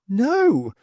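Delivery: lightly voiced alien denial. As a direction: snap back a firm no. Thu answers sharply.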